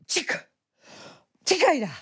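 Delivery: high, explosive sneeze; a big theatrical sneeze; huge sneeze. Acted. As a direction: sneeze terribly, with a gasp first. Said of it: "strašlivě kýchla".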